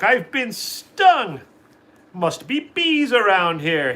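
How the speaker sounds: high, slow squawking duck voice; a stung duck complaining loudly; Donald Duck voice. A narrator's reading. Donald Duck complains about bees, slow high squawk. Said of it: "cried Donald Duck".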